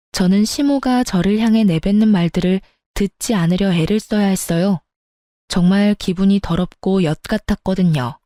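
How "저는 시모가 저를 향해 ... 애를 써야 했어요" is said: ordinary delivery, nothing marked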